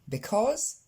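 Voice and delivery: because with stress on cause; stress on second syllable. Shown as a demonstration. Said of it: "L'accent tonique, donc sur la deuxième syllabe".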